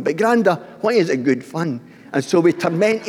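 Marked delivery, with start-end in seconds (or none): 0.0-1.8 grandson's voice. Retold or imitated. Grandson voiced in family story.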